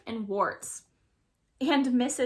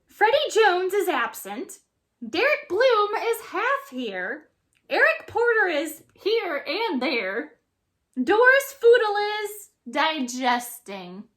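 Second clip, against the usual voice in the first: high, loud gleeful monster roll call; crackling roll call; 8 semitones higher, 6 dB louder than usual. A narrator's reading. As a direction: read the roll with dark glee. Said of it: "crackles Missus Green".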